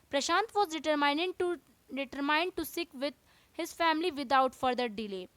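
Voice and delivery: slow, careful textbook reading; teacher reading the chapter to students, slow and deliberate; reading aloud. Acted. Teacher reading the English lesson to class, slowly.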